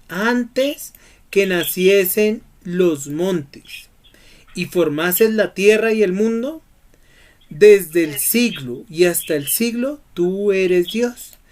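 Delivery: very slow, deliberate reading of the verse; drawn-out, solemn verse reading; slow scripture reading. Shown as a demonstration. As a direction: read each phrase slowly, with long pauses.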